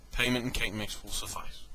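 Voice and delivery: lightly put-on posh accent. Real, not acted. Reviewer naming a payment for his prediction, mock posh accent. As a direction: slip into a mildly posh accent. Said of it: "did that in a posh accent".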